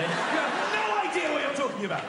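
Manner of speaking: drawn shouted retort; exasperated outburst. Acted. Parent to naive childless couple, exasperated shout. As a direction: shout it in disbelief.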